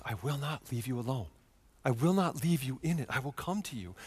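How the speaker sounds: soft, hushed promise; tender reassurance. Acted. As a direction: quietly assure someone they are not abandoned. Jesus's tender promise, quoted.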